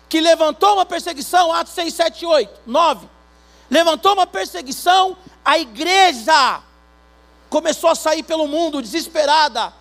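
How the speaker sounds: loud, high preaching with music; fiery preaching. Acted. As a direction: preach it out to the congregation. Preaching at full force.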